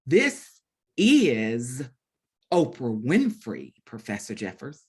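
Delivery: a light imitation of Oprah, slow, with a pause after each word; lightly voiced Oprah, drawn out with dramatic pauses; Oprah's iconic voice. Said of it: "in that voice that we, that we all know".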